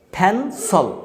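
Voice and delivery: ফ্যানসল with an aspirated p at the start; English pronunciation. Shown as a demonstration. Teacher repeating the right pencil for students. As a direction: breathe out on the p in ফ্যানসল. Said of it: "উচ্চারণটা হচ্ছে ফ্যানসল".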